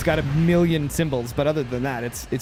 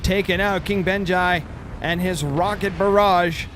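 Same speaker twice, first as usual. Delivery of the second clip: match commentary; 4 semitones higher, 4 dB louder than usual. Real, not acted. Calling the match being watched.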